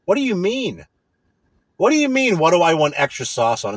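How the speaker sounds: hammed-up indignant comeback at the phone clerk; retold angry retort. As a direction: snap back in disbelief, pitch climbing. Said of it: "And it's like".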